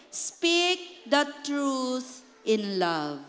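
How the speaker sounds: very slow, tender scripture line; slow gentle verse. Shown as a demonstration. Pastor models gentle truth for church, slow and tender. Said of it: "How do you say it?".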